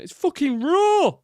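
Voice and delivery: hammed-up kitchen fury; Gordon Ramsay impression. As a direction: scream it like a chef at raw food. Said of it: "Gordon Ramsay impression".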